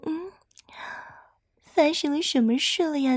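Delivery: ordinary delivery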